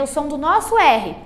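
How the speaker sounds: H as a breathy Brazilian R; English H sound. Shown as a demonstration. Teacher shows beginners the H sound, breathy demonstration. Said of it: "tem um sonzinho super importante".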